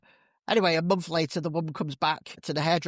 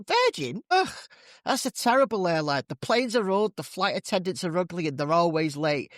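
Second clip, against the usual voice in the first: higher, disgusted scoff; scoffing hairdresser; 3 semitones higher than usual. Acted. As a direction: sneer at the airline.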